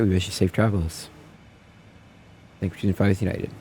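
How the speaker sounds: captain speaking over the PA; formal cabin address from the flight deck; airline pilot announcement. Pretend.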